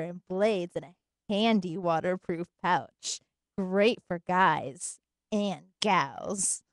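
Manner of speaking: slow, low sultry ad read; seductive voice. Acted. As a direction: breathe it out slowly and sultry. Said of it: "Give him the seductive voice".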